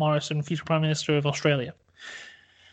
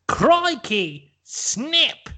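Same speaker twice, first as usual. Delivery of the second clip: high, excited Aussie exclamation; Scott Morrison; 8 semitones higher, much slower than usual. Acted. Scott Morrison winning the card game, high Aussie yelp. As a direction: yelp it like a triumphant Aussie gambler. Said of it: "Scott Morrison goes".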